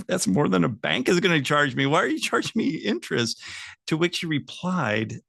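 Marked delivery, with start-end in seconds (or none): 0.1-3.4 retold protest, pitched higher; mock-indignant objection, rising higher into the question; incredulous protest. Son questioning dad about the interest, incredulous protest.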